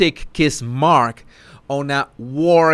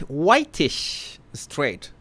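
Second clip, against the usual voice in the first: Whitish straight drawn out very slowly and softer in disbelief; mock incredulous; 4 dB quieter, much slower than usual. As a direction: savor the absurd label, stretching each word. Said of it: "how did they call me".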